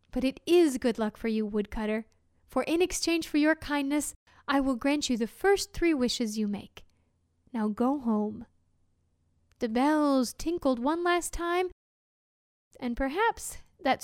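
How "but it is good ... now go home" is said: a lightly voiced fairy, gentle and grave; fairy rewarding the woodcutter's kindness; kindly fairy. Fairy grants three wishes.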